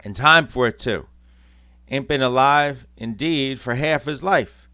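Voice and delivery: loud, rough cockney gossip; lightly voiced cockney charwoman. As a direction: gloat in a cockney accent. Cockney thief women talking.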